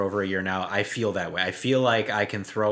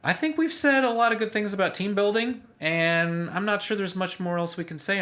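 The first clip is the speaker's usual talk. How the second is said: lightly voiced pirate, raised pitch; pirate captain voice; 9 semitones higher than usual. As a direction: take charge like a hint of a pirate captain. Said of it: "So I'm pirating this ship".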